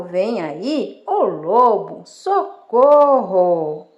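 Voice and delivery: drawn-out final cry for help; calling for help. Acted. Shepherd boy fooling the villagers, calling out for help. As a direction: call out, stretching the last word long and slow. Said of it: "decidiu gritar de novo".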